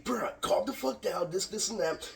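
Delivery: high, slow mock calm-down; lightly voiced friend telling you to chill; imitating Robert. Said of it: "he said".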